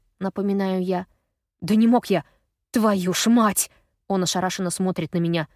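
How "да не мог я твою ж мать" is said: louder, slow exasperated curse; angry curse. A narrator's reading. Gaz refuses to believe it and curses, loud and slow. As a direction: spit it out in disbelief.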